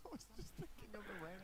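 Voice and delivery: high, laughing through words. Real, not acted. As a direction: still giggling. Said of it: "you can't stop laughing".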